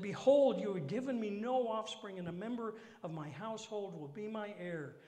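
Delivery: loud, high complaining read; whiny complaint. Acted. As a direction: complain it to God. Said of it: "He's whining and complaining to God".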